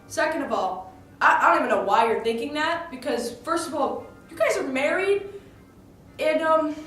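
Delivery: loud, punchy objection; emphatic protest. Retold or imitated. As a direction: retell telling someone to chill, hitting each point hard. Retells protesting Othello's jealous suspicion.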